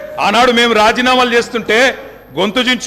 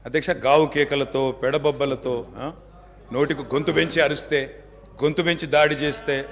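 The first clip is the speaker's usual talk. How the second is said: calm and quiet; 7 semitones lower, 8 dB quieter than usual. Real, not acted. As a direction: answer the hecklers quietly and firmly, refusing to match their noise. Answers hecklers' shouting calmly. (గొంతు తగ్గించి నెమ్మదిగా, స్థిరంగా)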